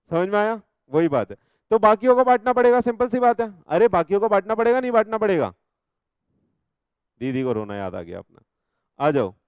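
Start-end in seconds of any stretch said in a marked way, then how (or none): 1.7-5.5 emphatic teacher. Real, not acted. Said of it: "teacher emphasises point".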